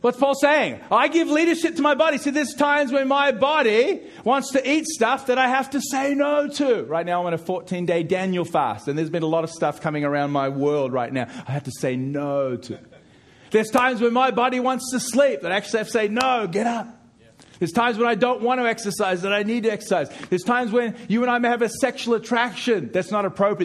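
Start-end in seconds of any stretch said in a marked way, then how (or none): 0.0-6.8 loud, high, impassioned preacher; full-force preaching. Real, not acted. 13.5-23.7 high, loud, insistent preacher; full-force preaching. Real, not acted.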